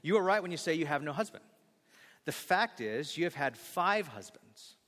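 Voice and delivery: gentle and kind; tender, gentle correction. Shown as a demonstration. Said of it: "he's so gentle with her".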